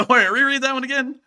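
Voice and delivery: laughing, high and loud. Real, not acted. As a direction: crack up in disbelief. Laughing disbelief at the question.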